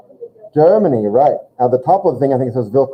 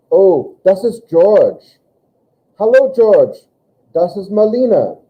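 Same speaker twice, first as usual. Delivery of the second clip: acting out dialogue; 6 semitones higher, 4 dB louder, slower than usual. Teacher acting out hallway introductions.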